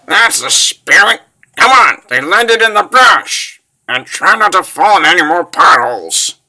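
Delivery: loud, high, rousing call; teasing shout. Acted. Traveller goading a fallen friend to get up, shouting. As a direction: holler to get a lagging partner moving. Calls to fallen companion to hurry.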